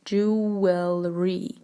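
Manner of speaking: jewelry stretched out as JOO-WEL-REE; jewelry slowly, each syllable drawn out; slow careful pronunciation. Shown as a demonstration. Teacher modelling the correct jewelry for learners, slow syllable by syllable.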